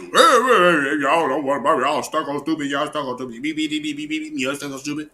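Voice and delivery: lampoon him as a fast-talking hustler; mocking impression of him. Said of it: "Like, you know".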